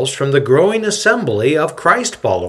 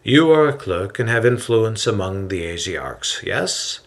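gentle, smiling. Acted. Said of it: "Hillel gently smiles and says".

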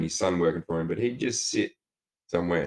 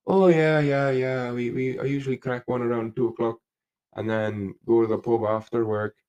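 higher-pitched, lightly voiced Irish builder; old Irish builder; 4 semitones higher, 3 dB louder than usual. Builder telling a worker about his drinking, lightly voiced old Irishman. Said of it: "I used to know an Irish builder".

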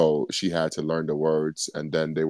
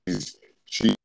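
glitchy robotic connection; 4 semitones higher than usual. Real, not acted. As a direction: metallic bad-line voice. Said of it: "you sound robotic".

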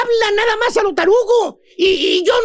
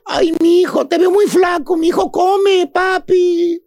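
doting mother-in-law. Retold or imitated. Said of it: "Ahí está la suegra".

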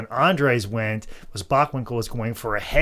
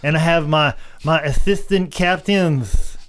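Dusty Rhodes impression; 3 semitones higher than usual. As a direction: lay on the Dusty lisp. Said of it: "bleed into the impersonation".

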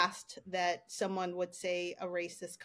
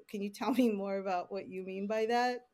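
lightly sarcastic question, drawn to a lifted end; a little sarcastic. Shown as a demonstration. Panelist models questioning a client's note, slightly sarcastic. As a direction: ask it with a hint of sarcasm. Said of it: "I sounded a little sarcastic there".

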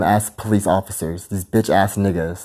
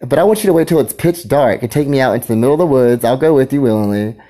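shouting; 5 semitones higher, 3 dB louder than usual. Real, not acted. Continues loud rant.

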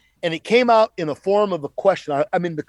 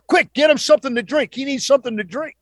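urgent order; 4 semitones higher, faster than usual. Retold or imitated. Doctors urgently instructing the steward.

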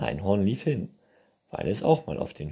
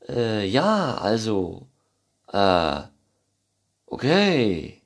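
louder, awkward stammer; flustered unicorns; 3 semitones higher, 7 dB louder, slower than usual. A narrator's reading. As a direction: caught off guard. Others flustered. (verlegenes Stottern)

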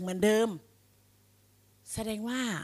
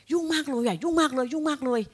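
lightly imitating someone pleading busy, a bit higher; mock busy complainer; 5 semitones higher than usual. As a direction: rattle off a mock excuse in a raised pitch. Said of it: "บางคน". (เลียนเสียงคนอ้างว่ายุ่งแบบล้อเบาๆ)

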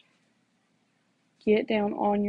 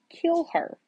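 devil's voice; 10 semitones higher than usual. Retold or imitated. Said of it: "it was the devil".

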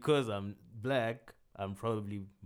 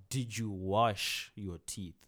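imitating a man who slows down his English to "sound black", lightly done; slow, talking-down mock of a patronizing man; slow condescending voice; slower than usual. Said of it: "did it in that, like, weird English thing, like, where he's trying to sound black".

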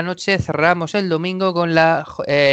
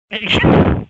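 burst of laughter; 6 semitones higher, 4 dB louder than usual. Real, not acted. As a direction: laugh breaking out after reading. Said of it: "me está dando la risa".

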